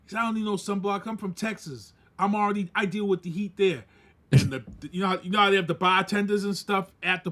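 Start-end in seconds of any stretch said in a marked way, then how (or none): 0.2-3.8 lightly imitated Texas accent; a hint of Texan in the voice. Cowboy brushing off sunblock, in a Texas accent. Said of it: "his Texas accent".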